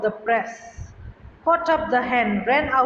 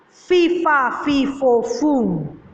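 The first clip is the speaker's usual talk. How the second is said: terrible giant roar; 2 semitones higher, 3 dB louder, much slower than usual. A narrator's reading. Giant sniffing out Jack in his castle, loud roar. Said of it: "he cried in a terrible voice".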